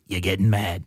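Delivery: lightly imitated Michigan accent. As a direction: pronounce the verdict in a mock Michigan accent. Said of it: "a very classic Michigan accent".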